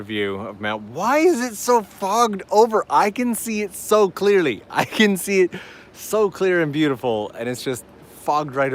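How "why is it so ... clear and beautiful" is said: high, loud, incredulous protest; real exasperation, pitched way up; exasperated complaint. Real, not acted. Frustrated that viewers see fog.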